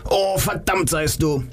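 slow, high anguished curse; the philosopher cursing Joe after the pill, high and slow; theatrical cry. Acted. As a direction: cry it out like a stage tragedian. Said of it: "Sekunden später schrie er".

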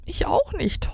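high storybook wail. A narrator's reading. Flapp cannot see in the dark, wailing. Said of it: "heulte Flapp".

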